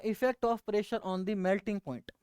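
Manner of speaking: unhurried, announcing the topic; slow announcing. Shown as a demonstration. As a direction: lay out the topic at an easy pace. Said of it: "हमें पढ़ना क्या है वो दोबारा देखो". (धीमे से विषय बताना)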